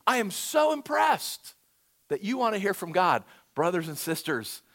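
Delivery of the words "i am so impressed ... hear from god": imitating the prophet. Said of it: "I go to him like".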